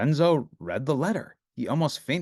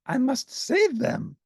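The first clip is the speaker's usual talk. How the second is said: high, urgent monster cry; crying out as Grover; 12 semitones higher, slower than usual. Acted. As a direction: cry out in alarm. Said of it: "cried Grover".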